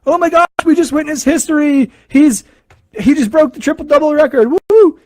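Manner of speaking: thrilled fan yelling and whooping; wild crowd cheer. Retold or imitated. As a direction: cheer it like fans seeing history, ending in a whoop. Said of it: "is going wild".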